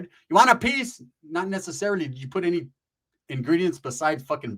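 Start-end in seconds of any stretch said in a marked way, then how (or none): 0.0-1.0 high, mock sweet offer; lightly voiced eager mom.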